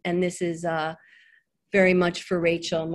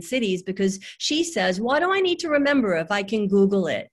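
lightly voiced chatty child explaining; Rachel; 2 semitones higher than usual. Daughter explains books and death to her mother, light child voice. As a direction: explain earnestly like a little girl, lilting. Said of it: "this is really all in Rachel's voice".

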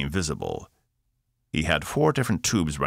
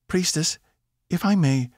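higher, politely asking captain; 14 semitones higher, 4 dB louder than usual. A narrator's reading. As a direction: ask for the floor carefully. Evie voiced in story.

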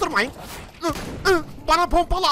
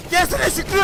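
taunting; 6 semitones higher, 4 dB louder than usual. Real, not acted. Taunting enemy.

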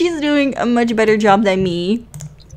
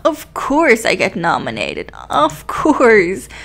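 mock confident; 3 semitones higher than usual. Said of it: "trying my best to sound very confident".

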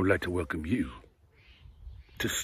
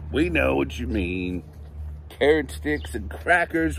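louder chanting correction; kids yelling; 3 semitones higher, 5 dB louder than usual. Acted. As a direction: yell it together as a class. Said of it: "we yell".

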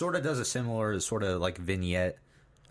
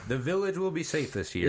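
higher seer voice; mock prophecy; 8 semitones higher than usual. Co-host finishing the seer's prophecy, mock high voice. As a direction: chime in like the seer.

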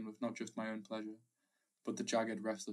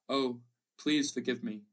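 slow, louder tearful begging; sobbing plea; 6 dB louder, slower than usual. A narrator's reading. Wife kneeling before her husband begs forgiveness, sobbing. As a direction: beg through sobs for forgiveness. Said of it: "she sobbed".

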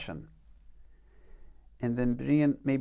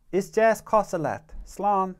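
higher-pitched first speaker; dialogue read-aloud; 6 semitones higher, 4 dB louder than usual. Shown as a demonstration. Teacher reading a practice conversation aloud, raised character line. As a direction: lift the pitch for one side of the dialogue. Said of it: "I'm gonna read this conversation again".

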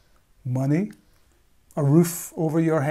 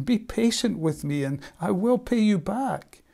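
mild pleading; 5 semitones higher than usual. Acted. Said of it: "begged him".

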